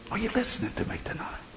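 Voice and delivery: hushed, breathy whisper. Acted. Preacher asking if they are listening, whispering. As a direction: whisper it to the congregation. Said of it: "He's whispering".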